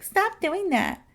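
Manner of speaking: mocking copycat cousin. Cousin copying a kid's words back in a teasing voice. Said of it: "your cousin would be like".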